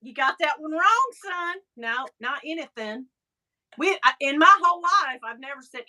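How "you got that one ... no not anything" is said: mock correction. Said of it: "me and Bill are always like".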